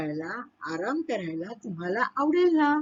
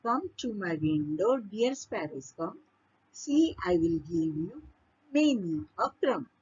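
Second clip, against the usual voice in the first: slow verse reading, phrase by phrase; poem recitation; 3 semitones lower, much slower than usual. Acted. Teacher reading the second stanza, slow poem recitation. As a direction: recite it slowly and measuredly.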